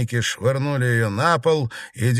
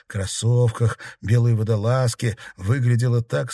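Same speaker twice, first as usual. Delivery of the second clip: usual speaking voice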